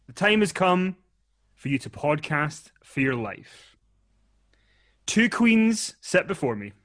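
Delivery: slow grandiose announcer; dramatic host voice. Acted. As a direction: intone it like a reality show host. Mock game show host.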